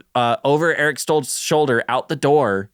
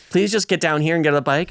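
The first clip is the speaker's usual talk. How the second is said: frustrated plea; 4 semitones higher, faster than usual. Retold or imitated. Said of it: "he was like".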